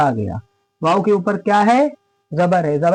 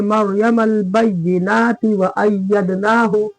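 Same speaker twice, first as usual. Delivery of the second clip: slow, measured chant with held long vowels; Quran recitation; slower than usual. Shown as a demonstration. Teacher reciting the verse for students, slow measured chant. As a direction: recite slowly and evenly, drawing out long syllables.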